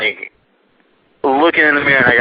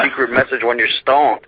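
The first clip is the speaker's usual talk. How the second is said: laughing through the words. Real, not acted. Storyteller quoting his stoned friend's theory, breaking into laughter. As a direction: crack up while quoting a friend.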